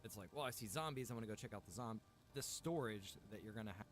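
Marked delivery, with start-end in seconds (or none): none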